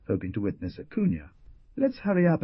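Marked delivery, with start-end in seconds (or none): 1.8-2.4 worried urging. A narrator's reading. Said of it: "the lawyer worried".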